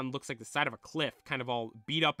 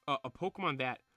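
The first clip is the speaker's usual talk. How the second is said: disbelieving question, louder at the end; incredulo; 2 semitones higher, 4 dB louder than usual. Acted. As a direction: ask it in mild disbelief. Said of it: "Red's in disbelief".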